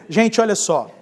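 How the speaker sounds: ordinary talk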